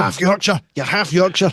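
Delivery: light sing-out of a jibe; retold taunt. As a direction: imitate a wife's needling. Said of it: "used to slag me into the ground and say".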